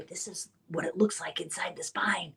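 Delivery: hushed, secretive whisper to a patient; voiceless whisper as if letting her in on something. Retold or imitated. Showing the patient the spine model.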